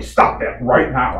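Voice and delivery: mild, drawn-out mock yell; retold yell. Neighbor yelling at him to stop, retold mock yell. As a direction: imitate a stern, slow order. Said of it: "that's basically the way he said it".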